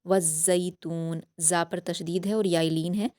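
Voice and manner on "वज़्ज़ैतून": slow, careful Quranic reading; slow recited verse; tajweed recitation. Shown as a demonstration. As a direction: draw the verse out slowly. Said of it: "वाव की हरकत को जा की तशदीद से मिलाएंगे".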